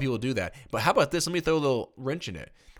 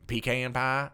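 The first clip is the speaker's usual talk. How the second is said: exaggerated Tennessee drawl on pecan pie; mock Tennessee way of saying PEE-can; Tennessee accent; slower than usual. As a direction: put on a Tennessee twang. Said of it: "how they say it in Tennessee?".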